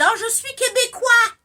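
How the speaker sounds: high, loud mock French accent; imitating a French person claiming to be Québécois; French accent impression. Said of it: "pourquoi t'imites les Français?".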